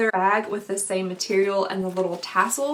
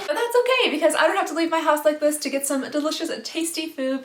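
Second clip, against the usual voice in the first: cooking show host; 4 semitones higher, faster than usual. Acted. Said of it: "Cooking with Alexandria".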